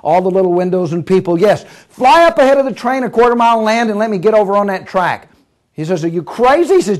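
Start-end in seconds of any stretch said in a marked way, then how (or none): 1.4-5.3 raised, excited run of commands; urgent order. Acted. Passenger to pilot chasing a train, urgent order. 6.0-6.7 high, disbelieving question; incredulous protest. Acted. Pilot told to land by the track, incredulous.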